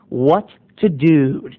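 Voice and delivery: "What to do?" slow and low with a falling "to". Shown as a demonstration. Narrator answering the parents, low and slow.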